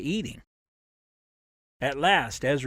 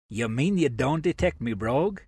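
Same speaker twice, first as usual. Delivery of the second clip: put-on light English working-class accent, teasing; strong English working-class accent. Ezra teasing the new rider at supper, in a light working-class English accent. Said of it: "He dipped into such a strong accent with the words".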